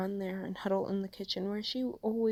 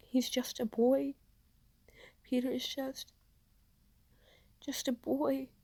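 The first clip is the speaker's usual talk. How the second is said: higher, tearful, breaking voice; voice cracking; 6 semitones higher than usual. A narrator's reading. May grieving her nephew before the crowd, voice cracking high. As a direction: grief breaking through each word. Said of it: "making her voice crack".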